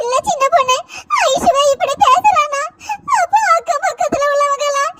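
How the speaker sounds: weeping mother complaining to her sister; crying. Acted.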